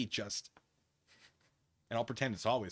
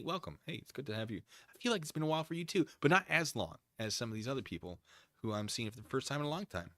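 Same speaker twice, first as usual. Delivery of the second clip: usual speaking voice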